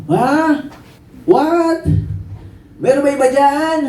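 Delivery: high-pitched incredulous yelps; comic balking at an order; shocked disbelief. Acted. Believer told by God to forgive an enemy, incredulous outburst. Balks at God's command to forgive.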